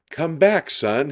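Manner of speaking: a worried father calling his son back; father yelling for his son to come back; yelled. A narrator's reading. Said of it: "he yelled".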